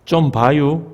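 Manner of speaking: Chungcheong dialect. Shown as a demonstration. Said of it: "충청도는요?".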